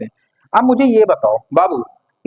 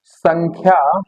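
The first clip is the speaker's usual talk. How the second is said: dictation pace; 4 semitones lower, much slower than usual. Shown as a demonstration. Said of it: "teacher dictating slowly".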